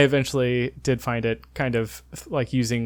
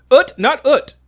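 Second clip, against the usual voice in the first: much higher, louder mock French, h dropped; annoyed French accent; 12 semitones higher, 9 dB louder, slower than usual. Pharmacist repeats himself to tourist, annoyed imitated French accent. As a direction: insist in an exasperated French accent. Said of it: "he's, like, so annoyed".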